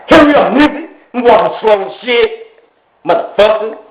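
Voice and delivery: impatient retold order. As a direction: retell it as an impatient demand.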